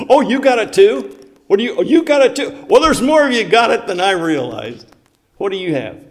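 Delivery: high, loud excited disbelief; delighted surprise. Real, not acted. Surprised others have the translation.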